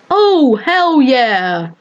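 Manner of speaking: slow drawn-out cheer; excited cheer. Real, not acted. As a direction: whoop it up slowly. Cheering while dancing in game.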